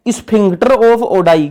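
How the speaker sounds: drawn out very slowly, word by word; slow dictation. Shown as a demonstration. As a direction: spell it out slowly so the class can write it. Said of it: "जिसको क्या बोलते हैं?".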